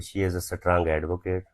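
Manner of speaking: slow, word by word dictation. Shown as a demonstration. Teacher dictating an example sentence slowly to students. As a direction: spell each word out slowly for the class. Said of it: "इसी noun को sentence में".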